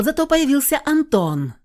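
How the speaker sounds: plain reading voice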